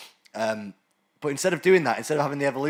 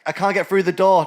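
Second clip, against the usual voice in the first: louder, higher mock complaint; mock whiny voice; 6 semitones higher, 9 dB louder than usual. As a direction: whine it like a caricature. Voicing an obese person mockingly.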